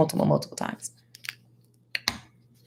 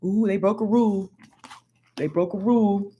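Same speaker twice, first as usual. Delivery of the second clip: mock legalist tattling; 3 semitones lower, 5 dB quieter than usual. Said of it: "legalism is".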